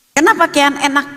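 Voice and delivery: put-on high, jealous child's protest; envious complaint. Older sister resenting little brother's day off, envious complaint. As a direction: imitate a sibling griping about favouritism. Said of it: "ada rasa iri".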